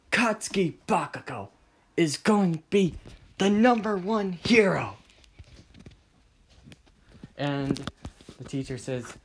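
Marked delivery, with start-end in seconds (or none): 0.1-5.0 high, loud bragging; swelling boast; boastful. Acted. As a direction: proclaim yourself the champion. Acted boast about himself.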